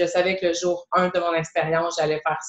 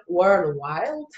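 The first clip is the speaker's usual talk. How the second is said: English word in a French-Canadian accent; careful English through a French-Canadian accent. Real, not acted. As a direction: say it with a self-mocking Québécois accent. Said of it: "avec mon super accent".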